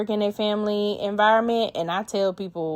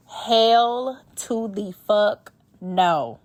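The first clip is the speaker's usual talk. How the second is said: very slow, every word of hell to the fuck no hammered; drawn-out refusal; much slower than usual. Real, not acted. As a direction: stretch it out like a verdict. Emphatic refusal after email quote.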